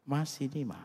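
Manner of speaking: high, sweet call to a beloved wife; fond, lilting summons; affectionate call. Shown as a demonstration. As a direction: call your wife over lovingly. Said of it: "Nadanya, intonasinya, itu bahasanya".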